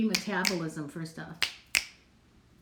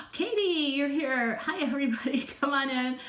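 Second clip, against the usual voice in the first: high, bright hello to a friend; delighted to see Katie arrive; excited greeting; 5 semitones higher than usual. Real, not acted. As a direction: greet her like a long-lost pal.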